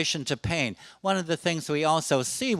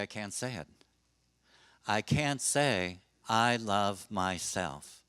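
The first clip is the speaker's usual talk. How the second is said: quiet, slow, broken-off words, much softer; halting and sad; 5 semitones lower, 6 dB quieter, slower than usual. Retold or imitated. Elderly client who cannot say she loves herself, quietly halting. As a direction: struggle to get the words out.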